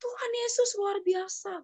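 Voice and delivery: high, slow awed whisper of praise; neighbour's amazed cry retold as a slow high whisper. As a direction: breathe it out in hushed wonder, slow. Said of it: "dia teriak".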